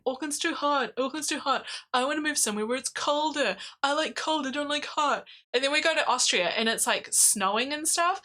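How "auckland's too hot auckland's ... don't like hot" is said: higher whiny moaning voice; whiny complaining. Retold or imitated. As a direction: moan it like a grumpy husband. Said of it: "Greg has always been saying".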